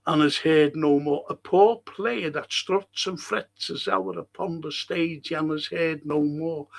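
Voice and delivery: slow, grave Shakespeare reading with long pauses; dramatic recitation. Acted. Lecturer reciting Macbeth's speech to the class, slow and grave. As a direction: deliver it like Macbeth mourning. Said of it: "These are the plotters".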